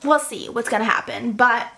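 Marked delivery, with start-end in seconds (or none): 1.3-1.7 drawn-out, slow "but I'm sad"; real sadness over a book ending; slow sad admission. Real, not acted. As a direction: let the sadness stretch the words. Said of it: "I'm sad".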